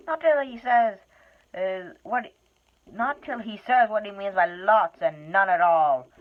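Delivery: loud, high, stubborn troll; a troll refusing to let go; suspicious troll. Acted. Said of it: "said Bert".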